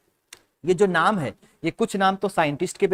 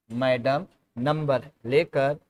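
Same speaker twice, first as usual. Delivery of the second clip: slowly assembled phrase; 3 semitones lower, slower than usual. Shown as a demonstration. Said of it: "मैंने लिखा".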